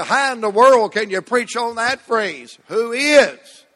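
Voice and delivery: lightly voiced skeptic asking Who is? with a rise; mock doubter. Preacher voicing a doubter challenging him, lightly mocking. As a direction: play the doubter scoffing at the phrase. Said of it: "You say".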